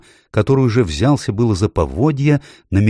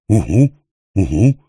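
mildly sorrowful owl hoot; sad hooting owl; 5 dB louder than usual. A narrator's reading. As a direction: hoot back with a touch of sadness. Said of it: "печально отозвалась сова". (печальное совиное угуканье)

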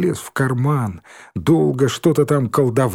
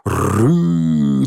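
rough growled beast roar; mock animal snarl; ugly roar. A narrator's reading. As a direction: growl in a silly monster voice. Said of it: "дурным голосом прорычал".

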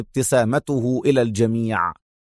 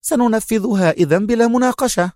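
higher, decisive statement; mildly resolute young woman; firm resolve; 8 semitones higher than usual. A narrator's reading. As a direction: settle it, no discussion. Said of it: "فاعتدلت قائلة في حزم".

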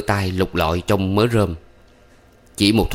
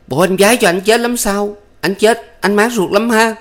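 shrill scolding, much higher and louder; angry shout; 13 semitones higher, 4 dB louder than usual. A narrator's reading. Thắm shouting back at her lover, angry. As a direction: yell back bitterly. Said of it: "Thắm quát lại".

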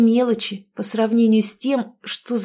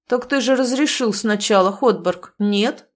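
sly challenge. Acted. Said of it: "сужает прозрачные глаза Ангус".

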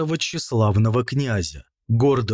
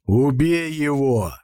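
stern repeated order, mildly intensified; stern command; 2 semitones higher than usual. A narrator's reading. Prince repeats his order to stunned brother, stern command. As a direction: repeat the order with measured severity. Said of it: "сурово повторил князь Александр".

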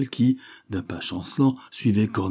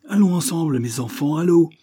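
mob shout; 9 semitones higher, 3 dB louder than usual. A narrator's reading. Mob urges each other on.

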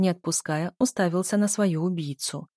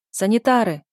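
louder shout for the orderlies; calling out; 3 semitones higher, 7 dB louder than usual. A narrator's reading. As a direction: call down the corridor. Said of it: "психиатр крикнул". (врач зовёт санитаров громким криком)

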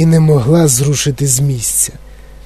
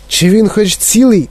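higher-pitched worried question; a touch of motherly alarm; anxious; 6 semitones higher than usual. A narrator's reading. Mother asking after her son, anxious. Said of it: "тривожилася пані Ті Ві".

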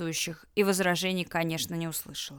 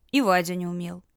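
ordinary delivery, nothing marked

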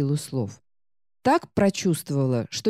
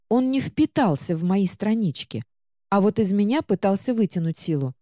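high, worried talking book; a frightened little book telling; scared book voice; 3 semitones higher than usual. Acted. Book recounts scary guardian.

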